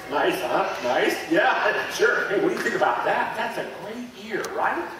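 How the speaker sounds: loud, gushing delight over a healed ear; bubbling over with joy, laughing; thrilled show-and-tell, laughing between words; excited. Acted. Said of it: "I'm so excited".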